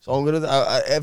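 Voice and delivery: normal talking voice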